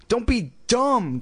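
high, drawn-out indignant protest. A narrator's reading. Slapped girl rejecting the excuse, protesting.

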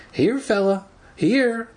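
high-pitched pet-calling voice; coaxing call. A narrator's reading. Teacher tossing seeds to the giant hamster, high coaxing call.

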